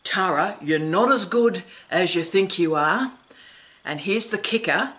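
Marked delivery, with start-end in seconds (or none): 0.0-3.1 quoting the dean. Retold or imitated. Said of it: "And here comes the phrase".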